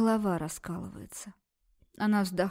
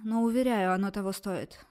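ordinary delivery, nothing marked

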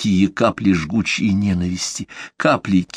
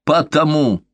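hateful shout; 7 semitones higher, slower than usual. A narrator's reading. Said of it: "с ненавистью во взгляде крикнула она".

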